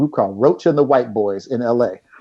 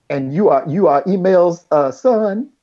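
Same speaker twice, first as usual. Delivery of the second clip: Impression of a famous singer; 6 semitones higher than usual. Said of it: "he sounded just like you think he would sound".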